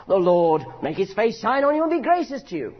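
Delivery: "The Lord make His face shine on you" read steady, with a pause after; measured blessing. Shown as a demonstration. Preacher reading the second line of the blessing with a pause after. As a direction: read it calmly and stop after.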